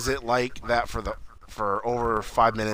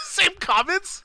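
laughing; much slower than usual. Real, not acted.

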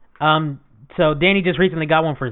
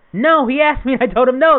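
retold protest; 8 semitones higher, 3 dB louder than usual. Retold protest about Xbox.

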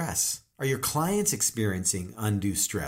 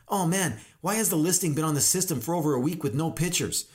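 higher, hurried mock complaint; put-on exasperation, pitched up; whining; 4 semitones higher than usual. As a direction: moan like a harried agent. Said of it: "whining and complaining all the time".

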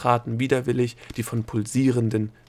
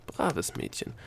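soft, higher coaxing whisper; encouraging whisper; 4 semitones higher, 6 dB quieter, slower than usual. A narrator's reading. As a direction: whisper approval to cheer her on. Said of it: "flüsterte der Gnom ihr aufmunternd zu".

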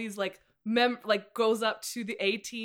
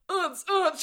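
high playful oops, louder; mock oops; 7 semitones higher, 5 dB louder than usual. Friends dancing alone in their world, playful high oops. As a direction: squeal it like dancing girls. Acting out the dance scene.

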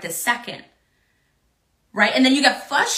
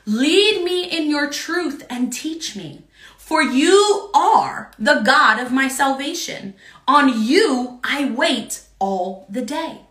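scripture reading; slower than usual. Acted. Reads psalm slowly.

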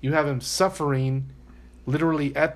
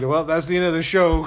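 laughing mock sign-off; 3 semitones higher, 6 dB louder than usual.

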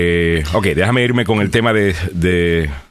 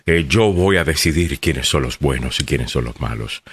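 self-important Comey; 3 semitones lower than usual. Retold or imitated. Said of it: "él simplemente vio como que".

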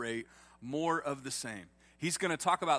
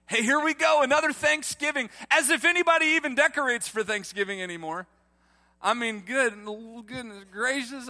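much higher, louder comic rant; excited rant; 10 semitones higher, 9 dB louder than usual. Real, not acted. Pastor ranting to the congregation, hammed-up and loud. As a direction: ham up the mock outrage.

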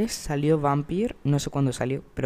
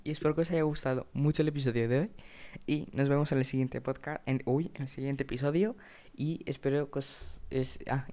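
talking through hiccups; hiccup-broken words; 4 dB quieter than usual. Real, not acted. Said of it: "me ha dado hipo".

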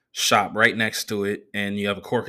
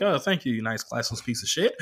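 a touch of fake politeness souring to scorn; sweet start, then drop it to a sneer; mock polite; 4 dB quieter than usual. Comic faking thanks to a sloppy server, quietly sneering. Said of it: "And I'm like".

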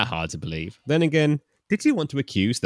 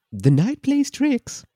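Scottish man voice; 3 dB louder, slower than usual. Acted. Male character dialogue.

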